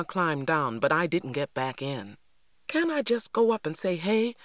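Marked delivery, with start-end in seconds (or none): 2.7-4.3 persisting. A narrator's reading. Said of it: "I persisted".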